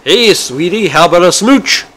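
high, loud cheeky parrot voice; loud, high flirting parrot; flirty parrot. Acted. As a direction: come on to her like a randy bird. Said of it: "the pastor's parrot ... goes".

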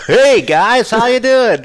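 loud, high mock holler; boisterous, high-pitched hail; imitated hearty greeting. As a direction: call out obliviously to the hunters. Imitates loud intruders greeting hunters.

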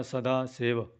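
ਸਦਾ with a light, soft d; ਸਦਾ ਸੇਵ with an unweighted ਦ. Shown as a demonstration. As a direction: say the ਦ in ਸਦਾ softly. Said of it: "ਸਦਾ ਪੋਲਾ ਬੋਲਣਾ".

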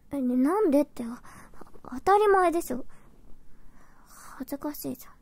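flustered burst, then embarrassed hush; huffy flustered denial. Acted. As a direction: snap it's obvious, then go shy. Embarrassed protest, loud then hushed.

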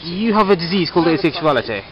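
mock posh doctor voice. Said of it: "talking in a posh voice".

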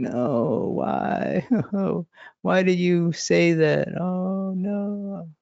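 high, slow wounded pleading; pleading while shielding herself; high hurt voice fading out; hurt wife. Retold or imitated. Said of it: "she's shielding herself".

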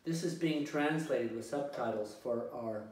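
measured delivery with pauses between phrases; speaking slowly. Real, not acted. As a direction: speak slowly for subtitled, non-English-speaking viewers. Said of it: "I need to speak slowly".

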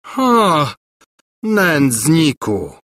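high, drawn-out insult; angry shriek. A narrator's reading. Governess insulted by the prince, mock shriek. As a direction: spit out a slow, high cry of outrage. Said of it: "wrzasnęła Gburja Furia".

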